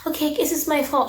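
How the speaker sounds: a lightly mocking fake apology; fake innocent. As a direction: play dumb, fake innocent. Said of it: "you wanna be like".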